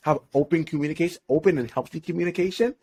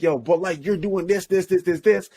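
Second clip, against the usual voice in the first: emotional comeback; 5 semitones higher than usual. Acted. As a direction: imitate a guy firing back defensively. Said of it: "guy's gonna get all emotional".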